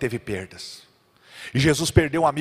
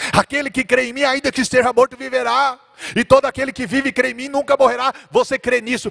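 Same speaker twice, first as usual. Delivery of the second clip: high, strong preaching declaration; proclamation; 9 semitones higher, 4 dB louder than usual. Acted. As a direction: proclaim it with fervor. Jesus proclaims resurrection. (proclamação fervorosa e aguda)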